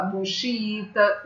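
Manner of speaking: xiita said slowly, xi-i-ta; xiita slowly split. Shown as a demonstration. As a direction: stretch xiita into three syllables. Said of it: "Que aqui são hiatos".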